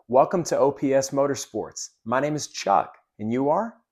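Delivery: friendly welcome, lift on "you are?"; genuine, confident greeting. Shown as a demonstration. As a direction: greet with authority, then rise on "are". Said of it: "let's do that one more time".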